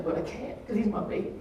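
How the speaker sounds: whispered, tearful; softly sobbing; breaking down. Real, not acted. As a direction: barely get the words out through tears. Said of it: "I'm crying because".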